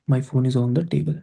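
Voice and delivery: slow careful model. Shown as a demonstration. Teacher models the English sentence slowly for students. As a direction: spell out "My phone is on the table" very slowly, word by word. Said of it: "इसका pronunciation होगा".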